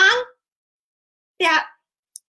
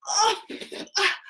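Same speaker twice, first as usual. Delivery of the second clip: high, loud cries, laughing through them; pained yell; 12 semitones higher, 5 dB louder, slower than usual. Retold or imitated. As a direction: play up the hair-pulling ouch. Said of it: "I said".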